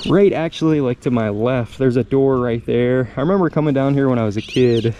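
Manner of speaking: normal talking voice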